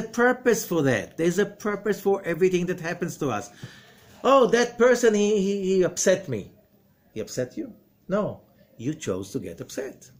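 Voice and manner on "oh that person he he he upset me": mock whiner. Mocking a complainer.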